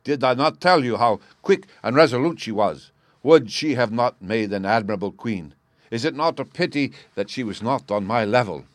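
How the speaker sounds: loud, proud royal voice; loud, eager King of Bohemia; excited king. Acted. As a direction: boast loudly to Holmes. King boasting of Irene.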